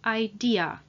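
idea, with an audible "a" at the end; final vowel pronounced. Shown as a demonstration. Teacher repeats idea for learners, final "a" sounded. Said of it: "we pronounce the "a" at the end".

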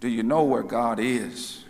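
understated stern minister, low and restrained; a hint of sternness, low-pitched question; lightly voiced solemn scolding; stern preacher. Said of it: "with a more stern voice".

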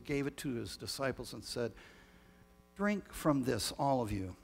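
measured, solemn prayer voice; liturgical prayer. Acted. Leads the communion prayer.

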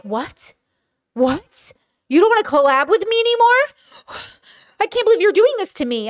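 mock a wounded collaborator, hammed up; whiny mock reaction. Creator mimicking a rejected collaborator, whiny and hurt. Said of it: "and they were like".

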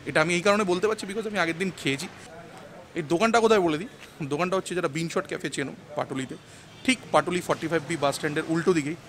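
muffled behind surgical mask; speaking into covered mouth; through a face mask. Real, not acted. Seen 1: Surgical mask covers nose and mouth throughout; reference frames show no mask.

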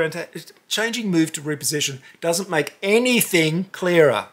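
ordinary talk

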